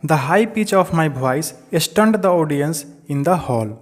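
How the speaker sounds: slow, deliberate reading aloud to the class; slow textbook reading. Acted. Teacher reading the chapter line to students, slow and deliberate. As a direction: read each English word out slowly for students.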